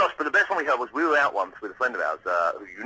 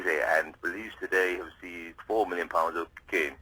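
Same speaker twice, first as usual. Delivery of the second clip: Trevor McDonald impression; 5 semitones lower, 4 dB quieter than usual. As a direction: read it like a grand newsreader. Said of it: "he used to say".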